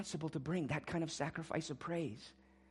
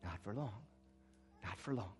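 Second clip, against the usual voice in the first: solemn warning; 8 semitones lower, 13 dB quieter than usual. Acted. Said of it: "God says".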